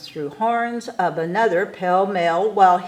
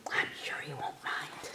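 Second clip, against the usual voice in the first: whispered, much softer, behind the hand; whispered aside; 5 semitones lower, 18 dB quieter than usual. Acted. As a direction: let it slip as a secret to the audience. Aside about the beast.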